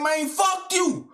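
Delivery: "Man, fuck you" drawn out as a shout. Retold or imitated. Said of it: "I straight said".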